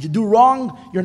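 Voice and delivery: loud, punchy warning; emphatic loud. Acted. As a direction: bang it out loud. Stark contrast of reward and punishment.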